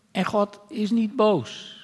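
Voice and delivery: slow, leaning hard on "niet"; reassure, slowly stressing "niet". Real, not acted. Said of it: "emphatic reassurance".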